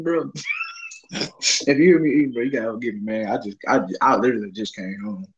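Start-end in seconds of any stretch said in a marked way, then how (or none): 1.1-5.3 talking through a mouthful of food; chewing while talking. Real, not acted. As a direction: eat and talk at the same time.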